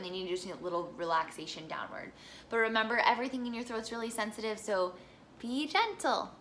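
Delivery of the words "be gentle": whisper. Shown as a demonstration. Coach advising gentleness.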